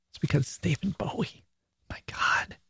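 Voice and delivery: soft breathy whisper. Real, not acted. Host whispering her disappointment about the song. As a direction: drop to a conspiratorial whisper. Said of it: "I don't know why I'm whispering".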